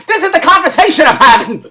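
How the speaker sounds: high, loud, laughing exasperation; laughing disbelief. Real, not acted. Vlogger marvelling at the conversation he's having, laughing. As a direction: laugh helplessly at the absurdity while talking.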